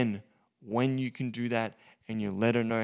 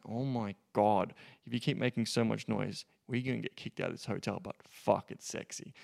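playful dominant; 2 semitones lower than usual. Shown as a demonstration. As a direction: tease her, amused and in control. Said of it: "So you can say it like that in that tonality".

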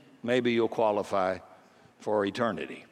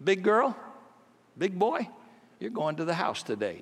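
tender invitation; 4 semitones higher than usual. Retold or imitated. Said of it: "would walk around and say to people kind of metaphorically".

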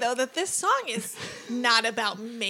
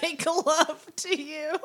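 deadpan, stifling giggles; straight-faced reading. Shown as a demonstration. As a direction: read it dead serious. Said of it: "read this with a straight face".

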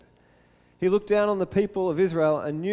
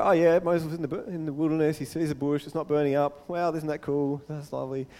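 blasé listener; 3 semitones lower, 3 dB quieter than usual. Acted. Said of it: "and you go".

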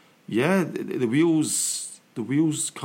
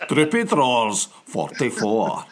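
bingo caller; slower than usual. Shown as a demonstration. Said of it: "Go on, Mikey, go on".

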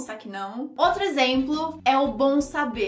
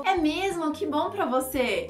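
sarcastic with a smile; 4 semitones higher than usual. Acted. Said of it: "Mesmo que tenha um sorriso".

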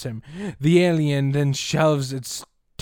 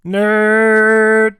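teasing shout; 6 semitones higher, 8 dB louder than usual. Real, not acted.

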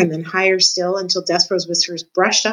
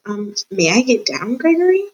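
rising high on Gregory, small and pleading; a lightly voiced mouse hoping to be freed; timid little mouse; 4 semitones higher than usual. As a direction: ask politely like a frightened mouse. Timid mouse asks to be released.

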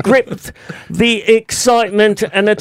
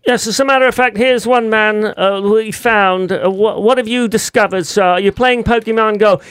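put-on light New York accent. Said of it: "this is my best New York accent".

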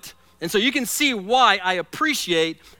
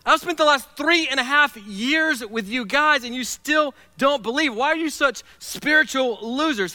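a mock scolding rant, higher and louder; browbeating; 6 semitones higher, 3 dB louder than usual. Jesus scolding doubting disciples, mock browbeating. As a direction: lightly berate them for lacking faith. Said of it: "he doesn't browbeat them and say".

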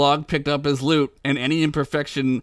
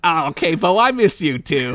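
cheery; 3 semitones higher, 4 dB louder than usual. Acted. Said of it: "Vlog said cheerily".

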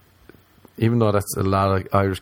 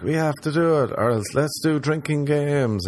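eager drinking-game organiser; 6 semitones higher, 3 dB quieter than usual. Retold or imitated. Voicing keen Americans about drinking.

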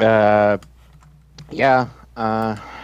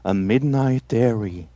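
spooky poem recital. Acted. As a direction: recite it like a horror host, lingering on words.

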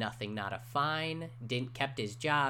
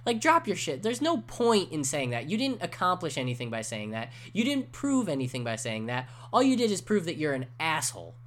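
higher, exasperated telling-off; fed-up retort; 5 semitones higher than usual. Retold or imitated. Retold rant at the radio host, exasperated. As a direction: scold the radio host like he's right there. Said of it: "I'm like".

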